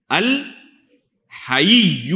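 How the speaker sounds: الحی broken up as "al", pause, "Ha-yiyy-yu"; very slow teaching model of al-Hayiyy-u; syllable-by-syllable pronunciation. Shown as a demonstration. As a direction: spell الحی out slowly by ear, stretching the doubled ya. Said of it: "ہا کے بعد یا کے نیچے زیر ہے".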